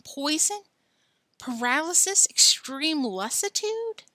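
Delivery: rising, frightened questions; Billy spirals into alarm, slowing on the last; panicked. Acted. Billy panics reading the poison warning, voice climbing high.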